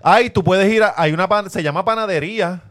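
lightly voiced Guaynabito discovering street life; mildly mock a sheltered suburbanite showing off; guaynabitos en calle. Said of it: "se sienten en calle. Dicen". (guaynabito levemente imitado)

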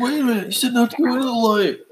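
high creepy psychic lady voice; poltergeist. Pretend. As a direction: squeak it out like the spooky little medium. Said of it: "my creepy poltergeist lady impression".

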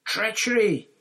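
outraged high, loud cry; bellow. A narrator's reading. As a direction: bellow the accusation at full pitch. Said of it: "he bellowed".

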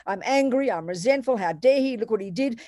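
a hint of a wronged girlfriend ranting to a friend; mock angry complaining.

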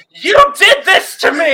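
high, loud, slow accusing yell; retold accusing shout. Teen retelling yelling at the Del Taco worker, mock shout. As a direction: blame her at the top of your voice. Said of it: "I went".

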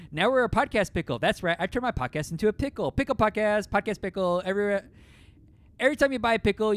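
excited rant. Real, not acted. Player gets carried away pitching a podcast pickle, giddy and high. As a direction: riff on it, spiralling up.

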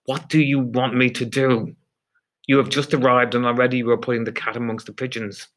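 exasperated tirade, pitched a little up; angry dressing-down. Acted. Superior throwing the guard out of his office, exasperated and angry. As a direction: berate a subordinate, building to a sharp dismissal.

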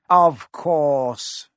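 loud, self-assured reply; coolly superior villain. Acted. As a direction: answer with cool, emphatic disdain. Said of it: "said Quirrell coolly".

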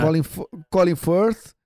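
Colin Firth in careful English accent. Real, not acted. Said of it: "respeitar a minha pronúncia de inglês".

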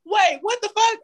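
high-pitched mock disbelief; retold shock. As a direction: exclaim it like a stunned student. Retelling students' shock at his accent.

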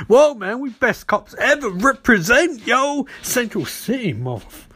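high, hyped-up cop bravado; hammed-up cops bragging about the catch; mock street cops. Cops boast to Barry after the arrest, in hammed-up slang.

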